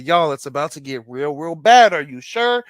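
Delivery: building teaser, loud on bad; retelling his own warning; mock warning hype. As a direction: hype the crowd before the drop. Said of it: "I said".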